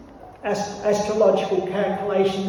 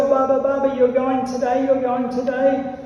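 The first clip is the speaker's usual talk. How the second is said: lightly voiced eager boy, higher and louder; a hint of a child teasing Baba; little boy Krishna; 4 semitones higher, 4 dB louder than usual. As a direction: call to father, excited. Young Krishna greeting father.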